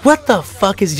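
confused audience. Retold or imitated. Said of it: "the audience is like".

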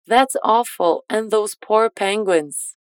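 slow, careful English model sentence; slow model line. Shown as a demonstration. Teacher models the line slowly for pronunciation practice. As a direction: stretch it out slowly for learners to copy. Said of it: "bora repetir essa frase pra treinar a sua pronúncia".

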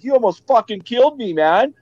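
imitating an indignant driver, high-pitched; angry passerby. Passing driver to the man in the ditch, indignant retold outburst.

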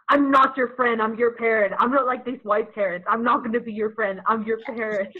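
lightly voiced stern parent, loud; strict parent. Parents telling their kids the rules, lightly imitated strict parent. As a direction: lay down the rules loudly as a parent. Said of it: "parents ever tell you".

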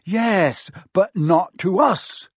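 loud, high, exasperated retort. A narrator's reading. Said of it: "said Ron in exasperation".

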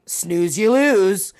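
lightly voiced dismissive flight attendant, rising on "lose"; mock flight attendant. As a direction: break it to the passenger with mock smugness. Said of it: "the flight attendant's like".

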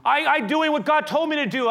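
high, loud protesting; defensive Moses. Acted. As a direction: whine that it wasn't your idea. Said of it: "I'm going".

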